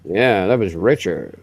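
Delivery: low, slow put-on southern voice; southern accent. Shown as a demonstration. Imitating Richard for the stream chat, slow low southern accent. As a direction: keep it low and lazy like a southern man. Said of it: "Richard southern accent there".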